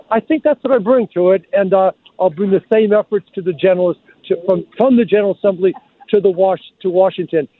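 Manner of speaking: slurred speech with frozen lips; slurred from cold. Real, not acted. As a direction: talk with numb, cold lips. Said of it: "are slurred a little bit".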